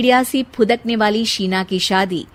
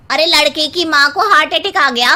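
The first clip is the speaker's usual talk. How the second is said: alarmed guest; 6 semitones higher, 5 dB louder than usual. A narrator's reading. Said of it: "कोई कहता है".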